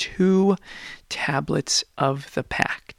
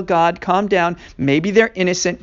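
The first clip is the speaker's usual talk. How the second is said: pleading Moshe; 4 semitones higher, 5 dB louder than usual. Acted. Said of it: "He's gonna come down the hill".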